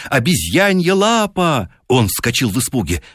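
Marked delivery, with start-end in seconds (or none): 0.1-1.7 high, drawn-out frantic cry of a wife. A narrator's reading. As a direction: she cries out in a mad rush of hope. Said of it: "кричала она безумно".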